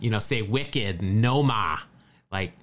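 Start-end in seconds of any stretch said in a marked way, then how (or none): 0.4-1.0 mock Boston accent from a comedy skit; imitated Boston accent. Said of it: "they would just talk in that Boston accent". 1.2-1.8 put-on Boston teen dropping the final R; mock Boston accent, skit style; imitated Boston accent. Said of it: "they would just talk in that Boston accent".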